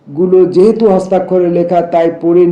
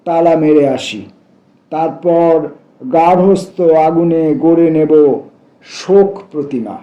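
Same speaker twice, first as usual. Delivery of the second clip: measured verse reading, phrase by phrase; deliberate, lyrical recital in short phrases; poetry recitation. Acted. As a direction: recite the poem with a pause after each image. Recites a poem aloud.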